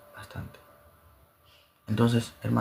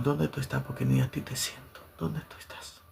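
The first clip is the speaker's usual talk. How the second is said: hushed plea; 3 semitones higher, 5 dB quieter than usual. Retold or imitated. Retold prayer to God.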